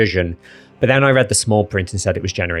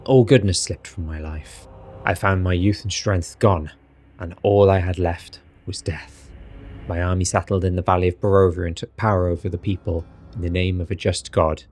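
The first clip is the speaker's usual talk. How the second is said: Strahd voice. Acted. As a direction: read it as seriously and dramatically as possible. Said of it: "I'll do it in my Strahd voice".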